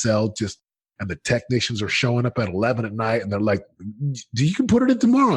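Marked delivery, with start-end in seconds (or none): 4.3-5.4 high-pitched, quick mock plea; pleading technician. Technicians asking the salesman to wait, mock high pleading. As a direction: imitate a technician in a squeaky-high, hurried voice.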